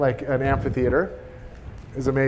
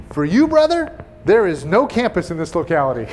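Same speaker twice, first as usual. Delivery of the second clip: teasing punchline; 4 dB louder than usual. Retold or imitated. Brothers teasing the speaker about no campus, playfully mock-serious. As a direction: turn his own words back on him with a grin. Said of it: "And they said".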